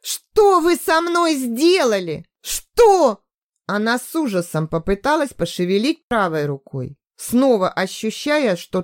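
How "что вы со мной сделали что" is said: much higher, louder, slow frantic cry; panicked yell. A narrator's reading. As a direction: demand in terror. Hysterical captive demands answers.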